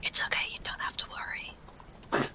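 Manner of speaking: whispering as quietly as possible, barely audible. A character holds a vibrating book close and speaks to it, in a quiet whisper. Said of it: "as quietly as possible tries to whisper".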